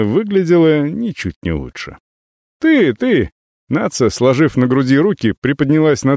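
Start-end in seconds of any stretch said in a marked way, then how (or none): 2.6-3.3 angry. Acted. Nacia angry at stranger.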